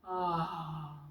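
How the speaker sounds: soft, low yawning "ah"; breathy yawn, as if ready for bed; demonstrated yawn. Shown as a demonstration. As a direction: let out a sleepy yawn. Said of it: "you also yawn a lot".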